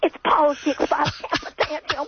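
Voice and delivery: high, whiny mocking voice that climbs to a wail; mock crybaby politician. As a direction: parody a weepy speaker pleading and threatening. Mocking the crying politician clip.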